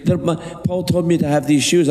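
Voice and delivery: acted self-justifying squabble; Conrad protesting. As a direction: protest as the little housekeeper. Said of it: "he goes".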